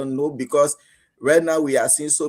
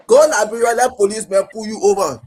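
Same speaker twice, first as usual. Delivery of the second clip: louder and higher, fed-up exclamation; exasperated outburst; 5 semitones higher, 7 dB louder than usual. Real, not acted. Host complaining to listeners about Liberian police, loud and exasperated. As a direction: throw it out in frustration.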